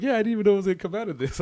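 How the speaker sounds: high, fast imitation; Mick Foley. Wrestler admits his surprise afterwards, high quick impression. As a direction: rattle it off in a put-on high voice. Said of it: "that's my Sam Elliott and Mick Foley story".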